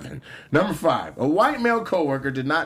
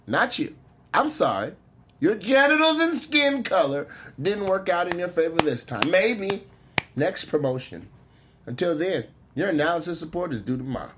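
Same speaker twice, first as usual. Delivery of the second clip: lightly hammed sister-girl comeback, settling down; sassy sister-girl voice. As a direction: wind down the sister-girl clapback. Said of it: "make her sound like a ratchet black girl".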